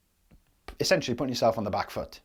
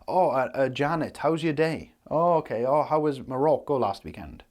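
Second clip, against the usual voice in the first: lightly hammed-up small talk, pitched up; mock chatty doctor; 3 semitones higher than usual. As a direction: imitate a doctor dawdling over friendly chit-chat. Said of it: "They don't sit there like".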